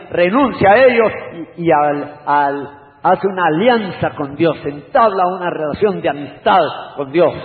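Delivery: loud, high exhortation; fiery preaching. Acted. Preacher urging the congregation, loud and fervent. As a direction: press the congregation to renounce.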